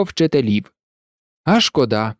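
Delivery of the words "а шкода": low, understated regret; regretful sigh. Acted. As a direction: say it lower, with a touch of a sigh. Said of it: "зітхнув Рон". (зітхання з жалем)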